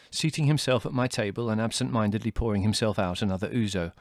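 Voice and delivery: ordinary delivery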